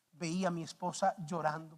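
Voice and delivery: ordinary delivery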